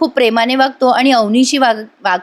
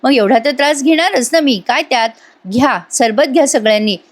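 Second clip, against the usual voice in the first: lightly sugary, polite son-in-law act; butter up the father gently; a touch of put-on sweetness; sweet-talking; 3 semitones higher than usual. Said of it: "कसा गोड गोड बोलतो".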